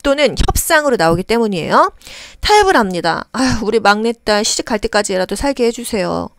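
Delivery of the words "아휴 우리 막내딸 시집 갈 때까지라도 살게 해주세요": pleading bargain. Acted. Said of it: "뭔가 타협하고 싶은 겁니다".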